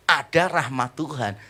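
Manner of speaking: ordinary talk, nothing marked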